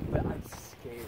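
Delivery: scared whisper. Real, not acted. Admits fear at haunted house.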